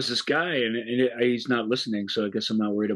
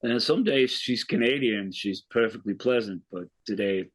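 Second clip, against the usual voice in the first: deadpan retelling in a mock Australian accent; fake Australian accent; 2 semitones lower than usual. Retelling a film detective's explanation, in a fake Australian accent. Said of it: "do it in a fake Australian accent".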